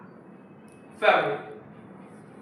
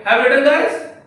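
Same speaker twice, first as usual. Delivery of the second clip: louder, higher call to the class; loud and clear; 5 semitones higher, 5 dB louder than usual. Real, not acted. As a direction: call it out to the room. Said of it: "I will loud and clear".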